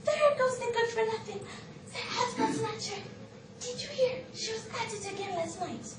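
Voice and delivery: mocking gossip. Women gossiping about the husband snatcher, mocking. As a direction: mimic women jeering at an outcast. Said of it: "laughing at me and mocking me, saying".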